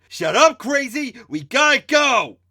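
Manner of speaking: very high, loud urgent yell; urgent shout. Acted. Mikey yelling at Candace to retreat, urgent shout. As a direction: snap at her and hurry everyone. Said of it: "Mikey shouted".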